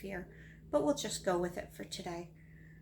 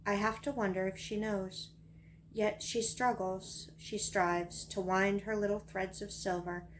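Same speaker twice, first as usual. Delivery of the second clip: measured recital of a little verse; poem reading. Acted. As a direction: read it as poetry, pausing between phrases. Reads own poem aloud.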